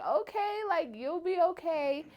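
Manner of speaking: high-pitched, drawn-out soothing; reassuring mom. Retold or imitated. Mom comforting crying daughter on the phone, reassuring.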